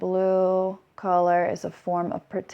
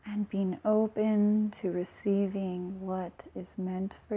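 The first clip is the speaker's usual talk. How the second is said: soft, unhurried guiding voice; softly spoken energy exercise with pauses between phrases; guided meditation; 6 dB quieter than usual. Acted.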